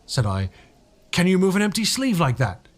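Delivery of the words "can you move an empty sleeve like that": lightly raised, nervous storyteller voice; a hint of a rattled man recounting; mild nervous retelling; Cuss telling his tale. A narrator's reading. Cuss quoting himself, rattled.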